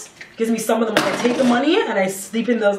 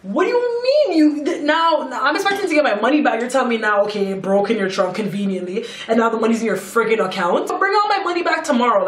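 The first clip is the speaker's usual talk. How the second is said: retold pissed-off venting; 2 semitones higher than usual. Venting to her cousin about the money, retold indignation. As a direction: vent in exasperation, imitating your angry self. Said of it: "I was venting because I was so pissed off".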